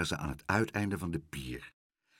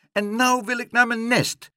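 high, loud, insistent gull; screeched demand; 13 semitones higher, 5 dB louder than usual. A narrator's reading. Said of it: "krijste Leentje". (eisend krijsen, hoog)

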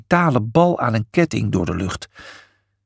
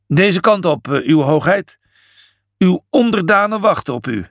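higher, formal announcement; courtly ushering; 4 semitones higher than usual. A narrator's reading. Priest leading Julius to his subjects, courtly. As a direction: usher His Highness with ceremony. Imhotep ushers the king forward.

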